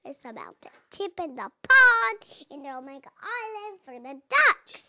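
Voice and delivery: loud eager prediction; blurting out the ending; excited guessing. Real, not acted. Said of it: "Don't give away the story".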